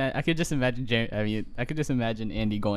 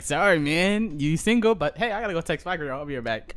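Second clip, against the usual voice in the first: mock bro voice; 4 semitones higher than usual. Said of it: "He's like".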